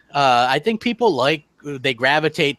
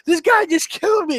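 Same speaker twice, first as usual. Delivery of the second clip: mock furious gamer shout; flipping out. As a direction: play a gamer losing it after getting killed. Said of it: "he's flipping out".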